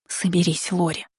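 тихо, себе под нос; тихо подбодрить саму себя; шёпотом себя подбадривает. Acted. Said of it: "прошептала". (шёпотом, подбадривая себя)

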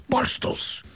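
borstels breathed out without voice; whispered repeat. A narrator's reading. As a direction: whisper borstels to make it clear. Repeating slowly. (borstels, gefluisterd herhaald)

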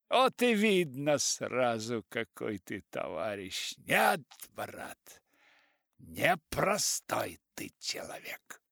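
lightly voiced preachy old writer, slow; elderly writer. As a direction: lecture him slowly, half mocking. Elderly writer lecturing narrator.

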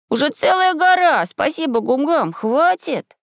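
put-on high-pitched excited boy; high boyish exclamation; boy calming his friend. A narrator's reading. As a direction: protest in a high voice to stop a friend. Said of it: "успокаивал друга Максим".

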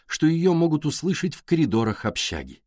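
ordinary delivery, nothing marked

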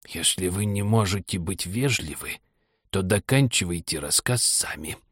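soft, pouting Dormouse grumble; sulky mutter. A narrator's reading. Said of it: "надувшись, пробормотал".

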